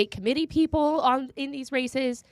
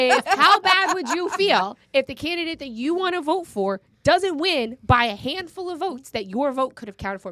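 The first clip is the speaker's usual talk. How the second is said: louder, higher, laughing as she lays on the guilt; laughing guilt trip; 4 semitones higher, 3 dB louder than usual. Shown as a demonstration. Host guilting listeners into voting, laughing. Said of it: "I'm gonna guilt you 'cause I'm Jewish".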